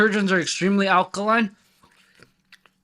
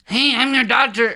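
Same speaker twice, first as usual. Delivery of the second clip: higher, louder awkward doctor greeting; janky doctor voice; 5 semitones higher, 4 dB louder than usual. Retold or imitated. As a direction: play the dorky doctor saying hi. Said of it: "You'd be like".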